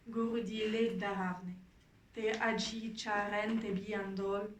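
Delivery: measured recitation with pauses between lines; deliberate poetry reading; poem reading. Acted. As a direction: read the poem line by line, unhurried. Reads second poem aloud.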